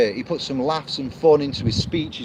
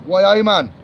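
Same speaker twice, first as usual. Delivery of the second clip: very high, hammed-up Geordie voice; mock a Newcastle Geordie badly, squeaky and high; bad Geordie accent; 5 dB louder than usual. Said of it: "Sorry, really bad at accents".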